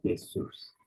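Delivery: "Jesus" whispered, yay-SUS; whispered repeat. Shown as a demonstration. Teacher whispering "Jesus" for students to echo. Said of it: "repeated in a whisper".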